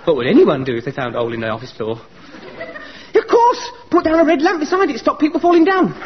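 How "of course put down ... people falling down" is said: high delighted burst; eureka. Acted. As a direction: seize on the bright idea. Struck by a bright idea.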